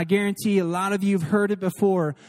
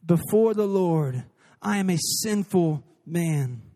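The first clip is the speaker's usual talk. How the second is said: slow, low, hushed confession; solemn confession; 4 semitones lower, slower than usual. Acted. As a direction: let it sink in, humble and slow. Preacher restates confession slowly, low.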